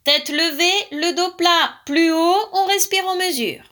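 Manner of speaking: high, loud drill commands; demanding. A narrator's reading. Frog drilling her rabbit pupil, demanding. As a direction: call out each order sharply. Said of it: "la grenouille était exigeante".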